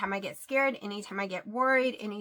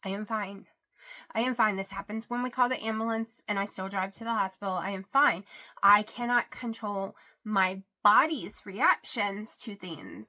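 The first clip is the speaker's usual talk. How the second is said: heated pleading; 4 dB louder than usual. Retold or imitated. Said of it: "I'm like".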